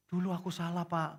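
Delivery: high mock-tearful confession; imitated crying. Husband admits his fault to the pastor, imitated crying. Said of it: "Suaminya nangis-nangis".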